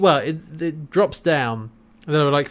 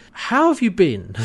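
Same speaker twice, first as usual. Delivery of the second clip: higher-pitched mock friendly greeting; Scorpius; 4 semitones higher than usual. Villain casually greeting John back in reality, mock friendly. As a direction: ask it like a villain making small talk. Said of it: "Scorpius is like".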